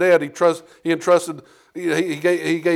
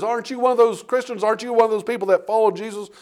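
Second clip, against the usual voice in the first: higher and pointed, a nosy questioner; accusing bystander; 7 semitones higher than usual. Acted. People in the courtyard accusing Peter of following Jesus, higher and pointed. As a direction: prod him with the question twice.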